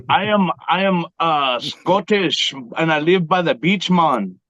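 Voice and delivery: put-on Scottish accent slipping into Jamaican; shaky grasp of a Scottish accent; botched Scottish accent. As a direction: attempt Scottish and drift toward Jamaican. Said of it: "we didn't need the Jamaican".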